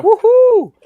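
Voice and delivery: big high whoop of delight; loud, high, joyful woohoo; excited cheer. Real, not acted. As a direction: whoop it out, thrilled a guest showed up. Cheering as the guest arrives.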